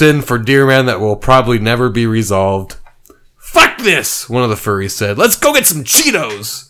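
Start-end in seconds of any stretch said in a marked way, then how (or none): 3.4-4.3 lightly higher furry voice; a hint of a bored furry. Bored furry giving up, lightly voiced. 5.2-6.6 lightly higher furry voice; a hint of a bored furry. Bored furry giving up, lightly voiced.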